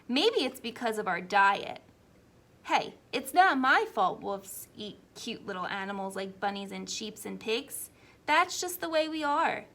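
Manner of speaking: a hint of a sly wolf pleading his case; wolf narrator. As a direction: play a self-justifying wolf telling his side.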